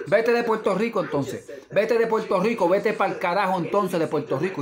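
heated, telling them to get lost; fed-up angry rant; angry outburst. Real, not acted. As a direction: spit it out in a real rant. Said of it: "Esto me salió porque me salió así".

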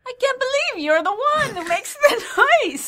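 put-on very high, loud Romanian old lady; hammed-up, incredulous Romanian accent. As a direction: shriek it in a mock Romanian accent. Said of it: "Romanian gypsy".

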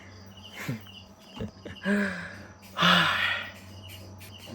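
long, high weary sigh; weary exhale. Real, not acted. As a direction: let out a drawn-out, tired breath. Worn out after all-night editing.

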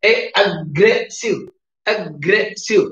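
AGGRESSIVE split into three beats; syllable by syllable. Shown as a demonstration. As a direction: say "aggressive" in separated syllables, ag-gre-ssive. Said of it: "there are three syllables".

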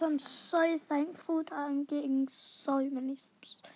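soft whispered aside; whispering. Real, not acted. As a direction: whisper it to the viewers.

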